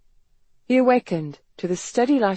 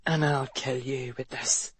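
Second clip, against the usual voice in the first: low, menacing growl; 4 semitones lower, 6 dB quieter than usual. A narrator's reading. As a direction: threaten him in a low growl. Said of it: "Ethan growled".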